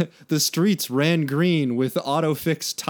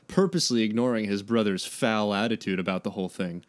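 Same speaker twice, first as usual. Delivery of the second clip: low, even read-aloud narration; story narration; 6 semitones lower than usual. A narrator's reading. Reads the story.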